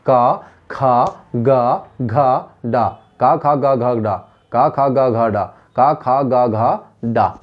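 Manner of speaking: का, खा, गा, घा, डा chanted evenly in repeated rounds; throat-sound drill. Shown as a demonstration. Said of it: "सबका उच्चारण कहाँ से होता है".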